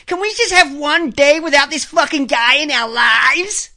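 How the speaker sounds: imitated exasperated plea; mimicked complaint. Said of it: "easier for her to say".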